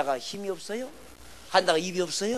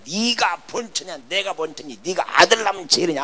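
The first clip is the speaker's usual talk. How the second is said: retold squabble, getting louder at the end; mock quarrel; 6 dB louder than usual. Preacher mimics two wives fighting over sons, quarrelsome. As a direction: imitate two wives bickering. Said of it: "싸우고 다투고 막 그랬을 거예요".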